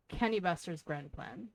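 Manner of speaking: put-on reading a pirate's lines in a rough Irish accent; lightly put-on Irish brogue, gruff and sly; shitty Irish accent. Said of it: "shitty Irish accent".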